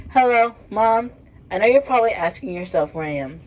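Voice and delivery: lightly voiced sassy teen; a hint of sassy teen; sassy daughter voice. Daughter calling mom.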